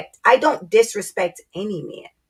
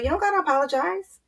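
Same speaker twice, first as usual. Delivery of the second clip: imitating husband; 5 semitones higher, faster than usual. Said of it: "he'd be like".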